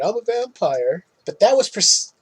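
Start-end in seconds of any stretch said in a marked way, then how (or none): 0.0-1.0 playful mock vampire claim with a rising end; kid playing vampire. Kid running around at Halloween, lightly mimicked playful boast. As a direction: lightly imitate a kid at play, slightly higher. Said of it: "run around going".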